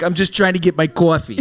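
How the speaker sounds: mock Boston accent with a laugh. Man imitating someone behind them at Dunkies, Boston accent. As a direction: play a Bostonian after coffee. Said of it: "That's Boston".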